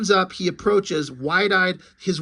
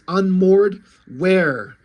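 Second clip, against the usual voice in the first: loud; 6 dB louder, much slower than usual. Acted. Hero's gasping inner monologue.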